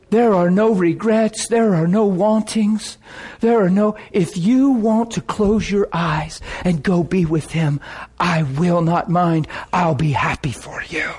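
slow, earnest retelling of her words; mildly overwhelmed, measured sincerity; sincere. Retold or imitated. Wife releasing her dying husband, sincere. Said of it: "she is so sincere".

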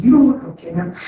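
concerned attendant. Retold or imitated. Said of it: "She said".

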